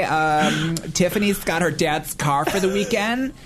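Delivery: put-on bubbly high Valley Girl chatter; Valley Girl accent. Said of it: "Do a Valley Girl accent".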